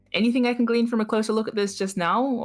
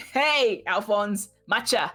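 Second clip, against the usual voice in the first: mock Australian accent; 3 semitones higher, much slower than usual. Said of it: "say it like a".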